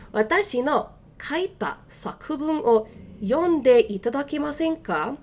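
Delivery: slow, deliberate Japanese model sentence; slow careful Japanese; slow careful reading. Shown as a demonstration. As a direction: read it out slowly for learners. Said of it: "just to read that a little bit faster".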